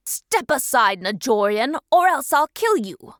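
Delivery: loud, rising menacing threat; threatening shout. Acted. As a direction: bark the threat at him. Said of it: "The Alpha's threats".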